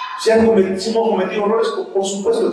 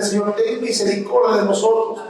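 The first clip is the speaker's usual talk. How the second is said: rising, pleading higher prayer voice; fervent prayer; 4 semitones higher than usual. Acted. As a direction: beg God for mercy with growing intensity. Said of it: "Esa le dice". (súplica ferviente que va subiendo de tono)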